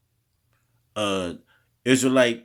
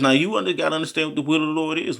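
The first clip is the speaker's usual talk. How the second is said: higher, rushing ahead with urgency; fired up; 5 semitones higher, much faster than usual. Real, not acted. Preacher urging listeners to understand the Lord's will. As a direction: push it fast and urgent.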